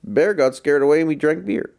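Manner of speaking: put-on half-hearted Southern storyteller accent; Southern accent attempt. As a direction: imitate a Southern comedian telling a tale. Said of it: "I can't really do the Southern accent".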